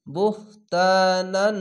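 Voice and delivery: বুহতানান slow, the tan held one alif long; one alif stretch. Shown as a demonstration. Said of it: "এক আলিফ টেনে পড়বেন".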